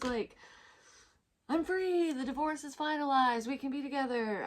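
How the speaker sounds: high, bubbly giddy rush of good news; giddy kid. Retold or imitated. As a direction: gush like a kid on Christmas morning. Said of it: "all giddy like a kid on Christmas".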